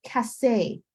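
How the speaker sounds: Cassé with a k sound, falling at the end; Cassé said apart for learners; French hard C. Shown as a demonstration. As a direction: model "Cassé" as a French word. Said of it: "it's building the pieces together".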